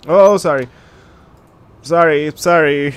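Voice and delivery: loud flustered apology. Real, not acted. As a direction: blurt out embarrassed apologies. Caught by character, embarrassed apology.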